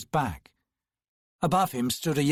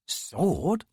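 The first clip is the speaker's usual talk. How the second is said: smirking; 4 semitones higher than usual. Acted. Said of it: "a smirk in her tone".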